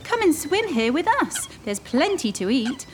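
lightly voiced welcoming swans; friendly swans. White birds inviting the duckling to swim, friendly. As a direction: welcome him warmly. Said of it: "said the beautiful birds".

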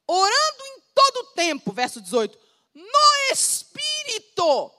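exultant high preaching shout on the key phrase; preaching climax. Real, not acted. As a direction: ring it out like a call to prayer. Climax of the sermon.

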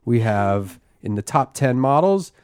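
slow, measured news anchor intro; Barbara Walters style. Acted. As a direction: deliver it like a TV interview host. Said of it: "like, a Barbara Walters style intro".

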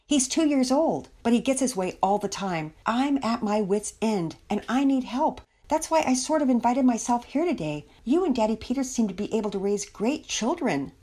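a touch of exasperation, lifted pitch; lightly voiced plea from a mother at a loss; pleading mother.

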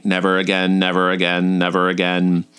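low, even-pitched repeated mantra; inner monologue. Retold or imitated. Inner monologue during an intense class, low chant. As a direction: repeat it low and monotone, like a thought. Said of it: "my inner monologue was saying".

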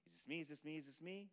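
soft, questioning inner voice; hushed anticipation. Retold or imitated. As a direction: imitate someone wondering under their breath, each question rising. Voices player still waiting.

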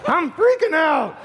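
comic exaggerated desperation; mock freak-out. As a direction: draw it out in mock panic. Acting out a frustrated evangelist.

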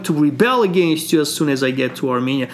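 high, drawn-out mock accusation easing into a vow; hammed-up defiance. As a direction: act out a king suddenly rebelling. Arshak turns defiant on home soil.

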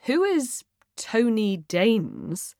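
slow, puzzled question; confused. Acted. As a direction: read out an unknown name slowly, baffled.

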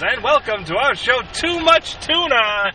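hammed-up morning show host; radio DJ voice. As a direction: pitch it like a cheesy radio host. Spoof radio show hosts.

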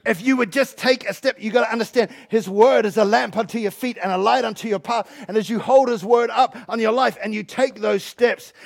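loud, emphatic sermon delivery; energetic preaching. Real, not acted. Preacher urging people to take a step, energetic preaching. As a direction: preach it with drive.

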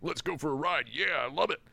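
Johnny itching to floor it, grinning; overjoyed Johnny. Retold or imitated. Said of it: "mind blown, overjoyed".

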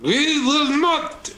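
high, slow mock French accent. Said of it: "you wanna hear my French accent".

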